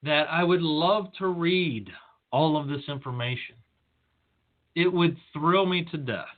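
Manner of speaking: feigned delight with measured, deliberate pacing; sarcastic. Retold or imitated. Speaker telling a colleague he would love the reading, sarcastic. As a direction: say it as if enjoying it, with understated sarcasm. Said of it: "that I'm being sarcastic".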